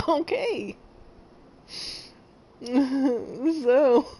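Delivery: giggles breaking into each word; trying to recover. Real, not acted. Streamer trying to get back to the game, still laughing. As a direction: try to restart but keep laughing.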